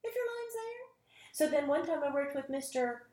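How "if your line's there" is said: Martin Sheen. Retold or imitated. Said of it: "And he goes".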